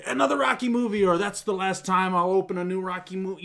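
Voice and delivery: high, sarcastic jaded sigh of a fan; mock jaded inner voice. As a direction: sneer at yet another sequel, pitched high. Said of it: "I wasn't like".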